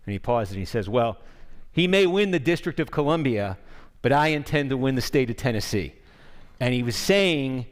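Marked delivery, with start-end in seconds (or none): 0.9-5.9 a light Texas drawl, quoting Bush at a rally; mild Texas drawl. Retold or imitated. Bush telling a Tennessee crowd, in a light Texas drawl. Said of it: "He's saying it with the Texas drawl".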